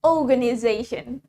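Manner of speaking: organization opening on a long O; British "oh" at the start of organization; British pronunciation. Shown as a demonstration. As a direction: say "organization" British style, hardly any R. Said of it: "Jadi dia pakainya O".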